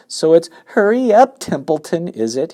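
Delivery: high, loud mock of the pig's plea; mocking Wilbur. Rat mimics the pig's plea, high mocking voice. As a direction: parrot him back scornfully. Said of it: "imitating Wilbur's voice".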